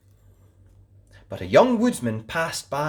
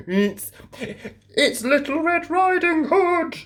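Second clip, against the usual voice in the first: put-on wolf faking a high girlish voice; sweet little voice. A narrator's reading. Wolf at the door pretending to be the girl, sweetly. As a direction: put on a sweet fake child voice. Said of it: "in a sweet little voice".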